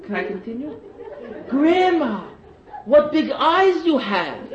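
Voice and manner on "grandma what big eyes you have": lightly voiced girl, higher, slow, laughing; a hint of a wide-eyed girl, mocking; Red Riding Hood. The girl speaks to the wolf, lightly voiced and laughing.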